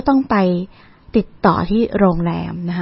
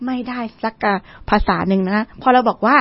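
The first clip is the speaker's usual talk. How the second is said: normal talking voice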